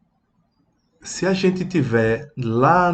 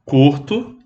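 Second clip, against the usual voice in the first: short chick sound; 4 semitones higher, 4 dB louder than usual. Shown as a demonstration. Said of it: "o pintinho vai ser curto".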